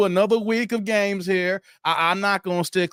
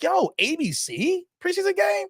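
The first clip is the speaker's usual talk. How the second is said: much higher, squeaky voice of disbelief; astonished at a preseason game on ABC; incredulous yelp; 11 semitones higher than usual. Retold or imitated. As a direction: shriek it like you can't believe your eyes. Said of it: "I'm like".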